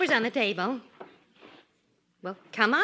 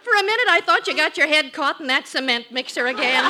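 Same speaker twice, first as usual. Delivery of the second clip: teasing laugh; 2 semitones higher, 6 dB louder than usual. Acted. Wife teases him.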